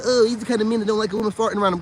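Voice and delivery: quick mocking whine of a beta; mock beta voice, fast; mocking a beta guy. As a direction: rattle it off like a simp. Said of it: "Those betas though, be like".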